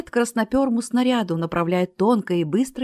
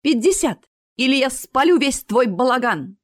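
higher, louder angry demand; angry threat; 5 semitones higher, 4 dB louder than usual. A narrator's reading. Astra angrily demands her fifty from the showman. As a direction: threaten him, fired up. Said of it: "Астра гневно смотрела".

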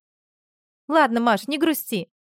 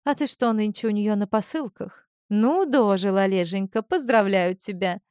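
mocking. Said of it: "Издевательски рассмеялась Марина".

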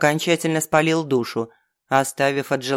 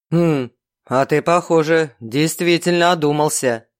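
smirking. Acted. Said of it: "усмехнулся старший".

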